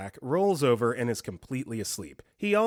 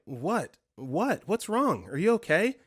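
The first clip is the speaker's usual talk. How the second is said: high, rising worried questions; alarmed; 6 semitones higher than usual. Retold or imitated. Boyfriend gasps awake, she asks high and alarmed. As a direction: ask it in rising panic. Panicked asking gasping boyfriend.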